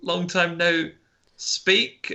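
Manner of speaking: chirpy colleague fixing her words; mock coworker; coworker correcting herself. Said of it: "she goes".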